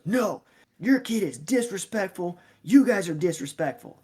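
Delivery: high, loud mock tirade; retold angry accusation. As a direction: imitate a dad yelling accusations. Retold dad arguing with coach.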